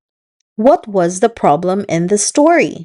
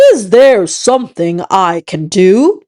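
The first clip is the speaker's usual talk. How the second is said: kind frog voice. Acted. Frog kindly offers help.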